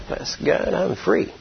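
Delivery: relieved whisper. Retold or imitated. Freed prisoner hanging up the phone, relieved whisper.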